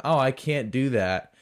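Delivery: open, full-voiced excuse; mock inability. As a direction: act out an apologetic refusal. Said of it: "It wasn't".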